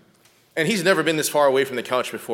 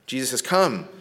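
usual speaking voice

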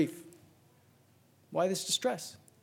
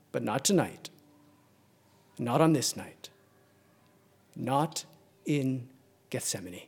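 hushed turn; 6 semitones lower, 6 dB quieter than usual. Acted. Preacher turning the congregation to Gethsemane, hushed and grave. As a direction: drop lower and softer, almost grave. Sudden hushed reversal after climax.

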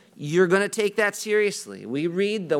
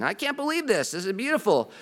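a high, overjoyed mock gasp of wonder; mock awe; 4 semitones higher than usual. Churchgoer marvels at finding his exact denomination, high mock awe. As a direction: act out thrilled disbelief, playfully.

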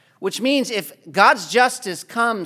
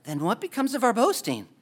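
disappointed; 3 semitones higher, 6 dB quieter than usual. Shown as a demonstration. Preacher reading Paul's question as if sounding disappointed. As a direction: say it like your pride just got taken away. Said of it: "it seems like someone's disappointed".

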